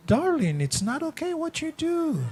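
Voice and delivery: high soft pleading; gentle spouse. Pretend. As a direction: coax your partner softly.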